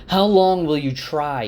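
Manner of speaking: loud, high shout into the night. A narrator's reading. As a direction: hurl it at the darkness. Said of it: "he shouted at the night".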